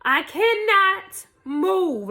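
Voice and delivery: high, slow, wailing protest; loud drawn-out mock wail; retold helpless plea. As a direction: stretch each word high, stuck and helpless. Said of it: "I'm like".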